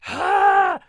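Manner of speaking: real thrilled yelp; excited squeal. Real, not acted. Thrilled by reunion.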